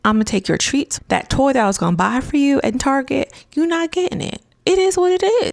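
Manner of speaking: high-pitched mock parental scolding; put-on exasperated parent voice; fed-up parent. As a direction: lay down punishments like an annoyed parent. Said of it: "Chris is like a fed up parent, just annoyed with their child".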